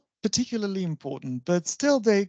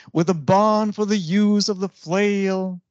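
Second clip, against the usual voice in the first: two light beats leading to BARN, USE and FLAIL; anapestic stress. Shown as a demonstration. Teacher reciting an anapest example, stress on every third syllable. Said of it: "this is Anubis".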